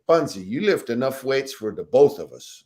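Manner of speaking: a hint of Fred's voice, ending in a chuckle; Fred talk funny. Fred leaving the weight room, mild impression with a laugh. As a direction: lightly imitate Fred brushing it off with a laugh. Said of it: "then you get Fred talk funny".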